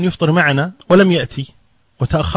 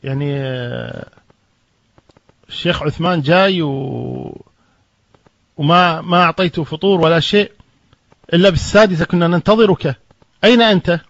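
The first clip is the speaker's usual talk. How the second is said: scolding, rising anger; 3 semitones higher than usual. Retold or imitated. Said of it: "قسى عليه بالكلام".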